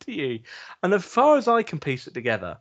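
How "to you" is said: high, breathless whispered question through laughter; laughing whisper to the passed-out wife; laughing disbelief. Retold or imitated. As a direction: ask it while cracking up. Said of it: "And I'm like".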